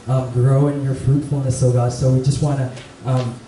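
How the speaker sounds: low, even prayer voice; opening prayer. Real, not acted. Youth speaker thanking God for the gathering, prayerful. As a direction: pray earnestly on behalf of the group.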